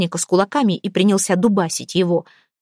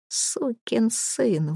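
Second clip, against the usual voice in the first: very slow, soft, bitter curse; low curse; 3 semitones higher, 7 dB quieter, much slower than usual. Acted. Jack cursing the boss after hearing the story, slow low curse. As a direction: drag the curse out quietly. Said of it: "выругался он".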